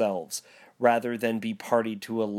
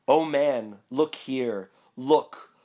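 ghost exclaiming; 2 semitones higher, 3 dB louder, slower than usual. Acted. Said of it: "exclaimed the ghost".

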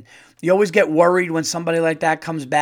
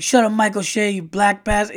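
imitating Gumby; 6 semitones higher, 4 dB louder than usual. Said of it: "and he was like".

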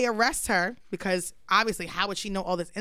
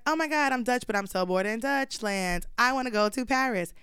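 lightly put-on bored dancer, pitched up; a higher-pitched, mocking take on a posing woman; mock posing white woman; 3 semitones higher than usual. Dancer whining of boredom in Dutchland, mock posing voice.

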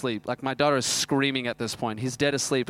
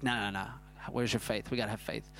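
faith-filled denial; 3 semitones lower, 9 dB quieter than usual. Retold or imitated. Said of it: "I'm like".

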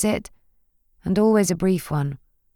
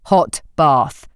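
instructing; 3 semitones lower, 4 dB louder than usual. Acted. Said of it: "he instructed".

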